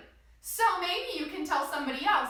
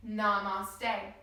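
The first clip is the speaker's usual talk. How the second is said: gentle namaste; 7 semitones lower, 3 dB quieter than usual. Shown as a demonstration. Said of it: "we're all gonna say".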